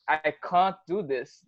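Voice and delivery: put-on slow, copied American accent; learner's put-on American accent; imitated American accent. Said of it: "I wanted to copy American accent".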